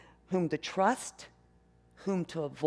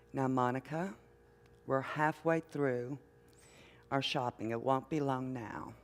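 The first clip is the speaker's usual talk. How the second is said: gentle mother; 5 semitones lower, 5 dB quieter than usual. Retold or imitated. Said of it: "says very gently".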